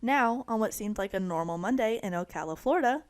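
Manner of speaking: news reporter. Acted. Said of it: "I sound like a news reporter".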